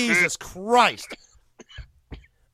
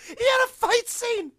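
excited; 6 dB louder than usual. Real, not acted. Excited retelling, shouting.

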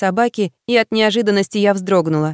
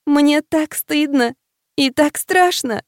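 slow, high tearful wail; 6 semitones higher, slower than usual. A narrator's reading. Lost girl sobs to her friend, slow high tearful wail. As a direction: draw it out as if through tears.

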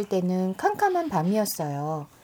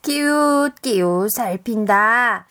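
loud slow call; 3 dB louder, much slower than usual. Acted. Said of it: "하는 거예요".

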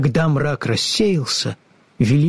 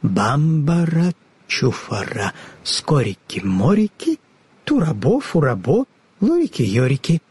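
slow incantation. Acted. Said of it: "начала медленно читать".

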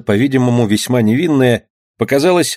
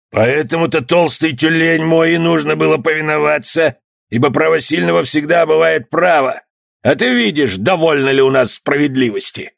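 mocking bandit; 5 semitones higher than usual. Bandit mocks the skipper.

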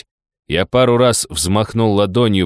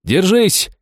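shouting; 11 semitones higher than usual. Acted. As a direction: shout it right into her ear. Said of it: "крикнул я ей в ухо".

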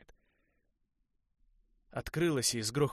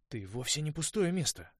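trying to sound sure; 7 semitones higher, 4 dB louder than usual. A narrator's reading. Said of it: "стараясь говорить уверенно".

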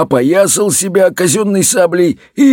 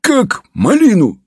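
high, slow relished threat; drawn-out mock dragon bark; barking dragon head; 5 semitones higher than usual. A narrator's reading. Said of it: "рявкнула четвёртая". (протяжный драконий рявк)

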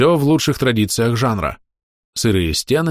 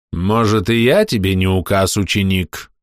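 cold voice. Acted. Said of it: "Холодный голос из темноты".

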